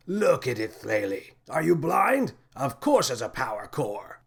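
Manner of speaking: captain scolding Flaley, mildly shouting; shouted. A narrator's reading. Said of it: "shouted the captain".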